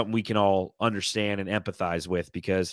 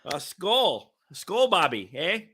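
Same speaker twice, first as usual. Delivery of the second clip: put-on Minnesota accent; 7 semitones higher, much slower than usual. Keeps the Minnesota accent going.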